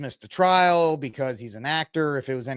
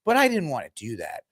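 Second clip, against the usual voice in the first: mock humble brag. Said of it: "like the humble brag".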